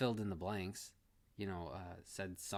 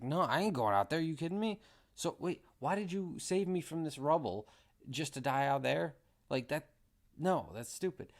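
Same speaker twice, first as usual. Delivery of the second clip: loud, higher, incredulous protest; incredulous refusal; 6 semitones higher, 5 dB louder than usual. Retold or imitated. Buddy refusing to go outside, loud disbelief. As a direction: scoff that you're not going out there. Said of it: "realistic, uh, things like".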